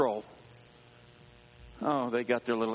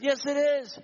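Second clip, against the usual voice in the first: distraught; 12 semitones higher than usual. Retold or imitated. Confirming the empty jet ski.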